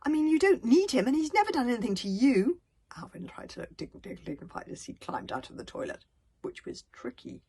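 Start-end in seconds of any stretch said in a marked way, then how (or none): 0.0-2.6 pleading. A narrator's reading. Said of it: "pleaded Hiccup".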